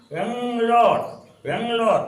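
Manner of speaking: बेंगलोर as a long "beng-lor"; drawn-out pronunciation. Shown as a demonstration. Teacher sounds out what the English wrote, बेंगलोर slowly as "beng-lor". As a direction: hold the nasal ng in बेंगलोर, then stretch "lor". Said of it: "हमने बोला बेंगलोर".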